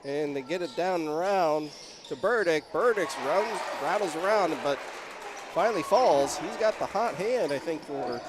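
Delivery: measured call with small lifts on the shot; live play-by-play. Real, not acted. Announcer calls Burdick's shot rattling around, live play-by-play. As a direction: track the ball for listeners.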